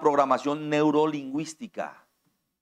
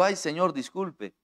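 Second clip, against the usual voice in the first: gentle apology; 4 dB quieter than usual. Retold or imitated. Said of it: "con este tono de voz".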